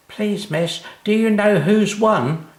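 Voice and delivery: put-on high, rising call from an excited boy; a boy keen to be on the radio; eager call. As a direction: call out to the teacher, bursting to know. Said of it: "called out Jimmy Bates".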